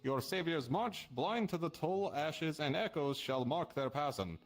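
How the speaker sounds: slow, measured riddle reading; slow verse reading. Acted. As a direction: read it like an ominous prophecy. Reads cryptic riddle verse aloud.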